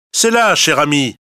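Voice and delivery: lightly voiced sly fox, coaxing. A narrator's reading. Fox coaxing the bear toward the trapped honey, sly. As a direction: lure him in with a sweet lilt.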